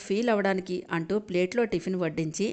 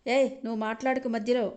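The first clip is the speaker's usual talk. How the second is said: hissing fury; 5 semitones higher than usual. Acted. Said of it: "అంటూ బుసలు కొట్టింది నీరజ".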